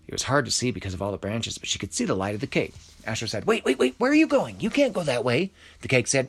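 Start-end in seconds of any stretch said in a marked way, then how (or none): 3.5-5.5 high, loud alarmed protest; loud, high-pitched pleading to stop; urgent calling. A narrator's reading. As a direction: call after someone getting away. Astro calls after fleeing cake.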